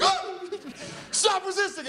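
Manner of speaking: high, strained mock cop yell; hammed-up cop stopping a suspect. Imagined cop during arrest.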